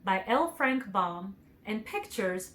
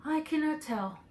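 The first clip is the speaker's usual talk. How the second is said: Tin Woodman; 7 semitones higher than usual. A narrator's reading. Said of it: "was the answer".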